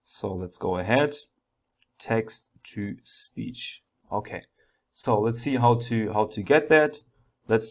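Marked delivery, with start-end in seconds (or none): 2.0-4.4 muttering to self. Real, not acted. Muttering while typing code.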